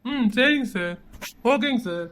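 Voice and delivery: low, soft acknowledgement; deferential phone voice. Acted. Man on a call with his boss, quietly deferential. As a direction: keep it low and respectful.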